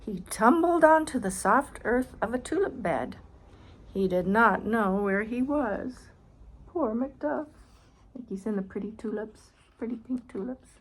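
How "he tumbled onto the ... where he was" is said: put-on reading aloud to a child, clear and bright; storybook reading voice; story narration. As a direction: narrate the picture book. Reads picture book aloud.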